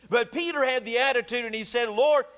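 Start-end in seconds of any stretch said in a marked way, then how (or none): 1.9-2.3 louder, higher boastful address; mock-boastful call, raised in pitch; imitating a confident boaster. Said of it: "he even boasted of the matter".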